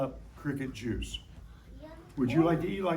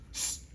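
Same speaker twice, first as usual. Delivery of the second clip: imitated hiss; 7 dB quieter than usual. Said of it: "if she hisses".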